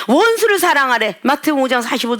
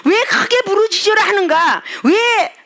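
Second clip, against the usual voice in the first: preacher's shout; 8 semitones higher, slower than usual. Real, not acted. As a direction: call it out to the congregation. (회중에게 크게 외치듯)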